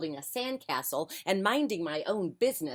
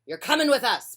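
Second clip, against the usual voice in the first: pirate voice; 6 semitones higher, 7 dB louder than usual. Acted. Pirate captain telling boy.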